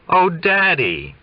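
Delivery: high, slow, delighted cry of Oh, Daddy; joyful. Acted. Daughter greeting her father on the phone, high and joyful. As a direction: pour out joy at hearing her father. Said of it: "Joy just streams through her lips".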